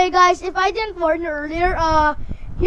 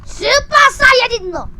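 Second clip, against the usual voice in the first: excited shout; 9 semitones higher, 7 dB louder than usual. Real, not acted. Anime reference shouted.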